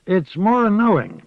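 put-on old witch sure of her knowing. A narrator's reading. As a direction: speak as the old witch Moss. Old witch Moss speaking.

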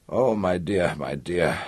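low, soft, consoling murmur. A narrator's reading. Missus Berenin hugs the crying girl, murmuring. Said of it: "Missus Berenin murmured".

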